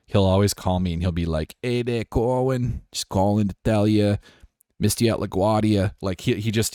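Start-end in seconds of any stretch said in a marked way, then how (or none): 1.6-5.9 put-on Danny Boy. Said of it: "Gumshoe is like Danny Boy's voicemails".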